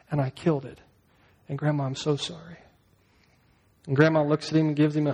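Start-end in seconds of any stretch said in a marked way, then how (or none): 0.1-2.6 softer, mild contrite apology; a touch of a boy owning up; understated guilty whisper-soft sorry; remorseful confession. Acted. Johnny's confession.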